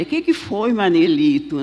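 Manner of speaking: joking, affectionate check-in; playful teasing. Retold or imitated. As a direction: tease him gently to lift his mood. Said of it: "Brincando assim pra descontrair".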